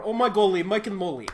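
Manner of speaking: a hint of Russian excitement; trampoline voice. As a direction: belt it like the trampoline guy. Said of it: "in the trampoline voice".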